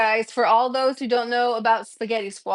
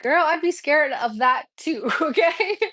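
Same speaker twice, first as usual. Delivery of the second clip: laughing; 4 semitones higher than usual. Retold or imitated. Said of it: "I was like".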